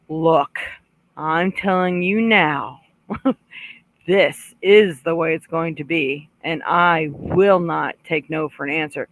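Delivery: steady, firm, without raising the voice; firm but calm. Shown as a demonstration. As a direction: lay down the law calmly. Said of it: "see how I did not raise my voice".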